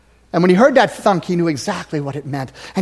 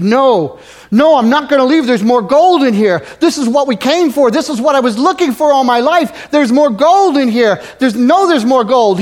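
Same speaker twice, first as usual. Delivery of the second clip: stubborn miner; 6 semitones higher, 6 dB louder than usual. Retold or imitated. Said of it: "the other miner said".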